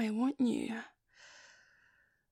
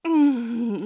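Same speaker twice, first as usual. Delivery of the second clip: a loud, pleasured moan; 8 dB louder than usual. Acted. To her partner rubbing her, a loud moan. Moaning at touch.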